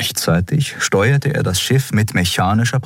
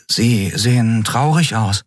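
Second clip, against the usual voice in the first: high and slow, gently worried; worried young crewman; slow, high boyish concern; concerned Miko; 5 semitones higher than usual. Acted. Miko's concern.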